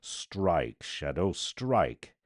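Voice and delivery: ringing call to strike; defiant command. Acted. Voice defies death over the body, ringing. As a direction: dare the shadow to strike.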